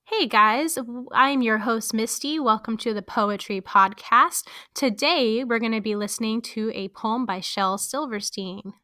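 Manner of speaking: energetic podcast host welcome; podcast intro. Shown as a demonstration. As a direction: greet listeners like opening your show. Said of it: "I'm gonna hit start recording".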